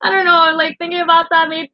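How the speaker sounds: high, trembling I-don't-know; fighting back tears; near tears. Real, not acted. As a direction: voice nearly breaking. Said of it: "almost made me cry".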